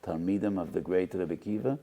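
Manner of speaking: slow, grave divine questioning; a hint of the heavenly court questioning the students; heavenly rebuke. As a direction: let each word land like a judgment. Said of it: "they were asked by HaKadosh Baruch Hu".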